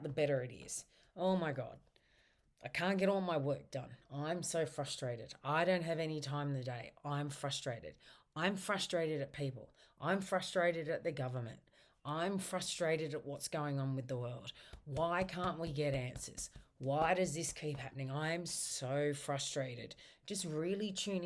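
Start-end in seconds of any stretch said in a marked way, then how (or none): 1.2-11.6 venting frustration demo. Shown as a demonstration. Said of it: "feel free to say what's frustrating you". 12.0-19.9 venting frustration demo. Shown as a demonstration. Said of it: "feel free to say what's frustrating you".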